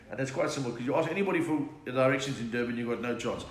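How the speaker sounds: usual speaking voice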